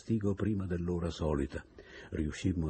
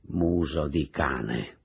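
growling through teeth; 4 semitones lower, much slower than usual. Acted. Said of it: "ruggendo tra i denti".

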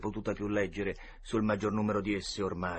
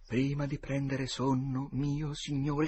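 praying; 6 semitones higher, slower than usual. Acted. Boy recites bedtime prayer.

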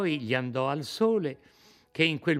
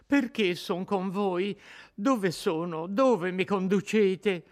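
frightened pleading; 8 semitones higher than usual. Acted.

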